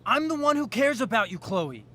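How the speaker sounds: pressing, agitated confrontation; heated insistence. Acted. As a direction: demand to be listened to, frustration rising. Frustrated suitor demands her attention.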